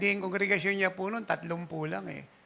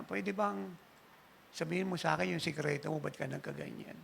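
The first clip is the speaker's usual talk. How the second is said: hushed question; 7 dB quieter than usual. Retold or imitated. Pastor quietly asking his secret.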